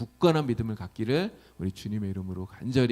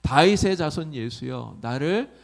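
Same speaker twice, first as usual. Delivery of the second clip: louder opening, slowing into the plea; loud pleading cry; 2 semitones higher, 4 dB louder than usual. Retold or imitated. Beggar Bartimaeus calls to Jesus for mercy, loud imploring call. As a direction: call out imploringly, drawing out the ending. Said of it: "큰 소리로 부르고 있어요".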